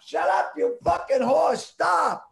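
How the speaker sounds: high, loud yell telling the device off; real angry shout. Real, not acted. Yelling at the smart speaker to stop, furious shout. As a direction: snap it at Alexa to shut up now.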